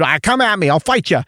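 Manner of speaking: lightly put-on pugnacious Boston accent; Boston pugnacious attitude. Imitating a Boston comic daring someone to fight, mock-pugnacious Boston accent. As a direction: pick a fight in a rough attempt at Bostonian. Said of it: "he's got that Boston pugnacious attitude".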